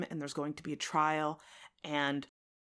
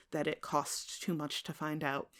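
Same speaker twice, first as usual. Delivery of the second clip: usual speaking voice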